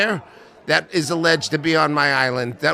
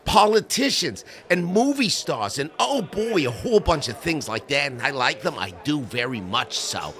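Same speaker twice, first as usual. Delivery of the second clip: Epstein impression. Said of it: "I take you live now to Jeffrey Epsteining".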